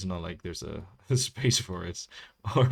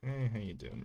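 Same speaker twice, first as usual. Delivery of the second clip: funny, clumsy, awkward, little delivery; 4 semitones higher, 7 dB quieter than usual. Trying out how a character greets people, a little awkward hello. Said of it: "little awkward hello".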